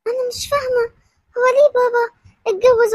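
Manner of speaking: put-on a child holding back tears; tearful confusion. Daughter upset, parents split. (بنت حائرة تبكي على أبيها)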